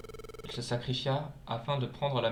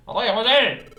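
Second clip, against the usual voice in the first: high calling voice; 9 semitones higher, 9 dB louder than usual. Acted. Character calling out.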